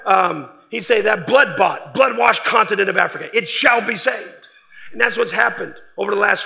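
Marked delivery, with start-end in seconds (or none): 1.0-4.5 put-on preacher's German accent, slowing at the end. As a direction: declare it like a German evangelist, German accent. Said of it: "He'd say that in his German accent".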